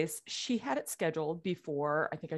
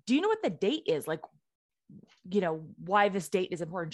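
frantic; faster than usual. Retold or imitated. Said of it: "So I call her frantically".

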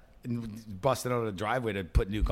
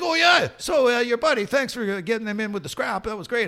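mimicking buddy; 10 semitones higher, 7 dB louder than usual. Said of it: "he's like".

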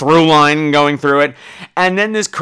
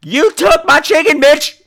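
silent fury; 8 semitones higher, 3 dB louder, slower than usual. Retold or imitated. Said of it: "but I'm just like".

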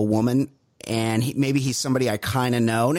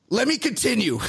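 mock man cutting in; 8 semitones higher than usual. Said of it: "he goes".

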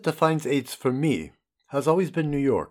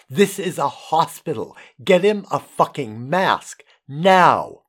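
retold yell; 4 dB louder than usual. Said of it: "I was yelling".

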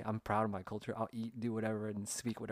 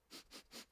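quick, very soft sniffs; imitated sniffing; 19 dB quieter than usual. Office workers catching the squid smell, imitated sniffs. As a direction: mimic coworkers sniffing the air. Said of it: "like, sniffing the dried squid".

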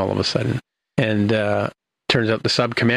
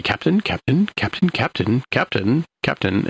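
repeated calling; 4 semitones higher than usual. Retold or imitated. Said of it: "this is where we get the".

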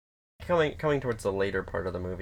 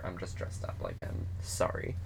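softer, whispered, apologetic voice; mild sad apology; 7 dB quieter than usual. Retold or imitated. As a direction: hush it like a broken apology. Voicing Lily's sad apology.

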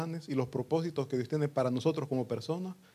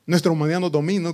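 louder faster Nuestra humanidad nos domina, stress on nuestra; emphatic repeat; 7 dB louder, faster than usual. Shown as a demonstration. Preacher hammering the point to the congregation, emphatic repeat. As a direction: drive the repeat home.

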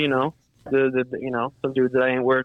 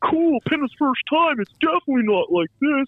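sarcastic; 14 semitones higher than usual. Retold or imitated. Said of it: "I'm like".

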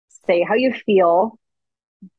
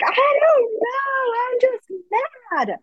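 put-on very high, slow crying child voice; mock sobbing child; whiny upset child; slower than usual. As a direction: wail it like a frustrated little kid. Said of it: "be like".

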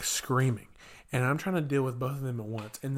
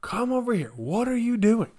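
high, raised-voice mock telling-off; retold exasperated scolding; 10 semitones higher, 5 dB louder than usual. Counselor confronts boy shoving kids, high retold scolding. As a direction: call him over in high disbelief.

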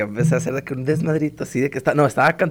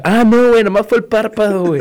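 casual friend's relief; 9 semitones higher, 6 dB louder than usual. Retold or imitated. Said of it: "Ruli checa".

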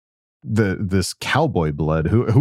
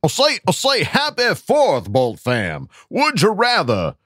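higher reading voice; put-on high voice; 10 semitones higher than usual. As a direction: read it in a silly high voice. Reads listener's message in voice.

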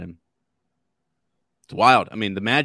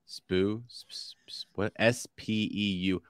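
whispered; 5 dB quieter, slower than usual. Real, not acted. Puzzling over the word Spew.

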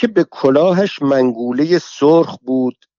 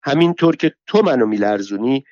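higher, biting scolding tirade; raging rival woman, somewhat higher; furious rival; 4 semitones higher than usual. Acted. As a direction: tear into her with insults. Saheb Soltan rages back.

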